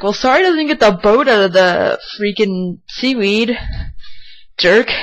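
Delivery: retold anger. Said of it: "I got really mad".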